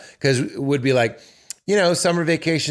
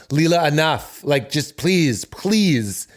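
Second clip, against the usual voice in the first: firm but mild; 4 semitones higher than usual. Shown as a demonstration. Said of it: "that slight drop is when I go".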